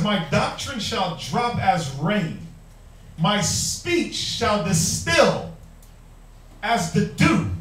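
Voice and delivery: slow, drawn-out scripture reading; slow and gentle. Shown as a demonstration. Preacher reading Deuteronomy to the church, slow and soft. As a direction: let each word fall softly and slowly. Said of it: "it's gonna come out nice and soft".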